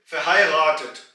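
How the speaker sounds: फहायगातत with a g sound in the middle; German word demo. Shown as a demonstration. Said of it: "इसलिए हम कहेंगे". (फहायगातत, बीच में ग की आवाज)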